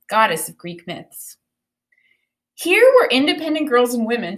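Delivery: clear, expressive picture-book read-aloud; storybook reading voice; reading aloud to children. Acted. Teacher reads book aloud.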